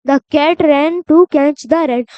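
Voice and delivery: put-on reading a rhyme to children, word by word; slow, careful read-aloud; slow poem reading. Shown as a demonstration. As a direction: read each word slowly and clearly. Reads the poem slowly.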